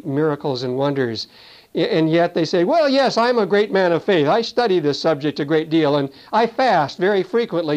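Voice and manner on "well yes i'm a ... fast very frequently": mock self-important boast. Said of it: "used of God will walk in the flesh".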